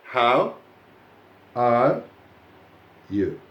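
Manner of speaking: word by word with long pauses; robotic dictation. Shown as a demonstration. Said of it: "as if I were a robot".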